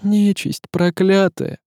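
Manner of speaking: slow, high-pitched venom; hissed curse. A narrator's reading. Tsaritsa cursing the changeling, hissing. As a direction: curse it slowly through a hiss. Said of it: "прошипела она".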